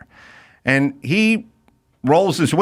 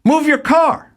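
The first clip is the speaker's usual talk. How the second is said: angry driver, much higher; mock angry driver; 12 semitones higher, slower than usual. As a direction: spit it out dismissively. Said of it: "he goes".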